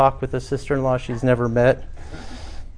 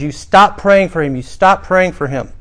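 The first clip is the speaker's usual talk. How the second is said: insistent repeated order; 4 semitones higher, 4 dB louder than usual. Retold or imitated. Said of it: "she repeated multiple times".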